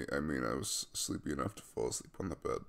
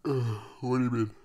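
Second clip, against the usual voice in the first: louder, startled question; flustered surprise; 4 semitones higher, 8 dB louder than usual. Acted. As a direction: caught off guard, blurt it out.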